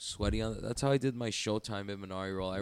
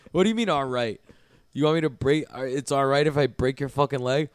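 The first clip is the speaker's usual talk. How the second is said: louder, higher retold outburst; exasperated disbelief; 5 semitones higher, 6 dB louder than usual. Grappler baffled by visitor who won't say tap, exasperated disbelief. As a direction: challenge him in indignant disbelief. Acts out own baffled, angry reply.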